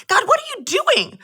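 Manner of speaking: exasperated high cry at God, mildly acted; frustrated plea to God. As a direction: throw the question up at God in frustration. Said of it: "started to get angry and... frustrated".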